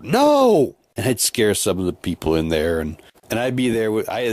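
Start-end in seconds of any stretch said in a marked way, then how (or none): 0.0-0.7 yelled no. Retold or imitated. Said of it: "And I yell out".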